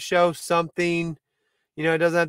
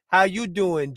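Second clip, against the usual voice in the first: Joey impression; 3 semitones higher, slower than usual. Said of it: "I immediately think".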